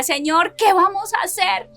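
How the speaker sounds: replaying a weeping plea, lightly voiced; retold tearful plea. Wife retelling her dawn prayer, a touch tearful. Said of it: "me levanté una madrugada a llorar y le decía".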